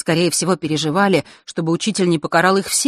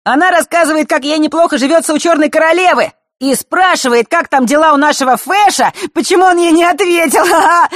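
put-on teasing girly voice; 13 semitones higher, 7 dB louder than usual. Феликс дразнит, читая письмо.

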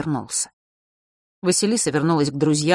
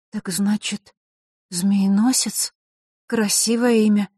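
slow, higher, hesitant drawl; drawn-out filler remark; 4 semitones higher, slower than usual. A narrator's reading. Vasilisa fills a silence after hearing Fesh's name, drawling slowly. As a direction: stretch it out to fill the silence. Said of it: "протянула она, чтобы не молчать".

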